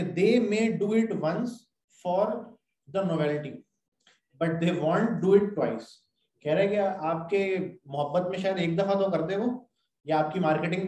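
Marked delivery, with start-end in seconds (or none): 0.0-5.9 slow, careful reading from the book; slow textbook reading; reading aloud. Shown as a demonstration. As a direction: read each word out deliberately. Reading English text aloud.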